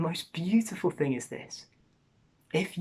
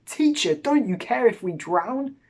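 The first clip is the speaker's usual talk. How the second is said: high, louder panicked plea; panicked cry; 7 semitones higher, 5 dB louder than usual. Retold or imitated. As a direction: cry out like frightened men in a sinking boat. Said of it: "they are panicked. They are angry with him".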